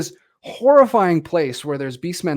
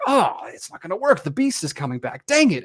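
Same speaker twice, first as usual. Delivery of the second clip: mock frustration; 3 semitones higher than usual. Podcaster acts out the film doctor's failed plan, mock frustration. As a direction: imitate an exasperated schemer, pitch jumping.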